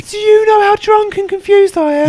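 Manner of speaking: put-on drunken shout. Drunk man shouting at rival.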